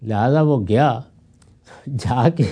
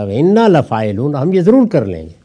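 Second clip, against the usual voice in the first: firm, emphatic recitation, louder and slowed; said forcefully; 5 dB louder than usual. Retold or imitated. Brothers promising Joseph they will bring him, forcefully. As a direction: press each word hard, with insistence. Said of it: "بڑے زور سے کہا".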